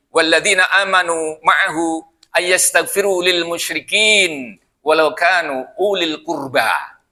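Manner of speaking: slow, drawn-out Arabic chant; Quran recitation. Acted. Preacher to congregation, chanting the verse slowly. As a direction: let each word ring as scripture.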